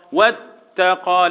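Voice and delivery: slow واتقى with the doubled taa held; drawn-out واتقى, long closure on the taa; correct shadda demo. Shown as a demonstration. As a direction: press and hold the t in واتقى before releasing it. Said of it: "لان الهاء تاء عليها".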